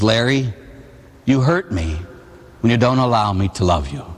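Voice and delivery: low, halting, gently wounded; mild hurt with long pauses; retold sorrowful God. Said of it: "and God is sobbing".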